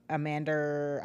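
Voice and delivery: a hint of a posh British reality-star Amanda; Lisa Vanderpump accent. Slipping into a British accent while naming Amanda, lightly British. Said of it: "I sound like Lisa Vanderpump".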